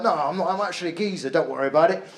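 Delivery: lightly mocked London geezer accent. Comic mimicking an audience member turned geezer, London accent. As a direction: imitate a breezy London geezer. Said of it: "you became really London there".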